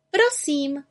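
high, unruffled little witch; composed, high character voice; calm. A narrator's reading. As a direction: answer calmly in a high, light voice. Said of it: "řekla klidně".

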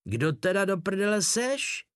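high-pitched, exasperated demand; acted angry interrogation; enraged outburst. A narrator's reading. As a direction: flare up with pitch rising sharply. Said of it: "rozvsteklil se dědek".

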